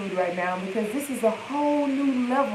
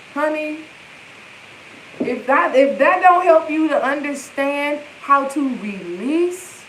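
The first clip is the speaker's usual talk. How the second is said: preaching loud; 4 semitones higher, 4 dB louder than usual. Real, not acted. Emphatic preaching to viewers.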